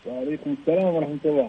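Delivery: distant, faint phone voice; phone held away. Real, not acted. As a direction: caller sounding far from the mic. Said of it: "لا، كذا صوتك بعيد".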